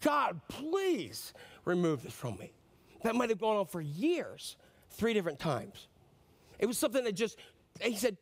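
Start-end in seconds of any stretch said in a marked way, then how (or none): 0.0-2.5 slow, drawn-out pleading; weary, slow begging; long drawn-out plea. Retold or imitated. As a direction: stretch the plea out, worn down by long seasons. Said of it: "seasons of just pleading".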